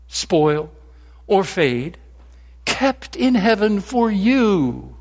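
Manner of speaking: measured, emphatic reading of scripture. Acted. Preacher reading Peter's words to the congregation, solemn and emphatic. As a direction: read the verses aloud as holy words. Reads scripture passage aloud.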